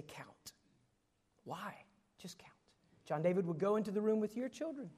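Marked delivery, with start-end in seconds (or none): 0.0-0.5 unvoiced whisper to the wife. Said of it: "I'd lean over and whisper". 1.4-1.8 soft whispered question; whispered reply. Retold or imitated. Wife whispers back in retold scene. 2.2-2.5 unvoiced insistent whisper. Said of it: "I'd lean over and whisper".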